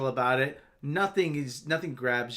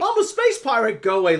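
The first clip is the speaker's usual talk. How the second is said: put-on high, loud, jeering rough street accent; mock rough street accent; 6 semitones higher, 7 dB louder than usual. Joining the mockery of the actress, rough street accent. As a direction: sneer it in her rough street accent, laughing. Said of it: "that's how she kinda sounds".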